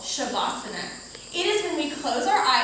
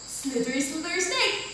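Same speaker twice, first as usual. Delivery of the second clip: hissing snake voice; drawn-out s like a snake; 2 semitones higher, 4 dB quieter than usual. Shown as a demonstration. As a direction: stretch the s like a hiss. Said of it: "We're gonna hiss on this".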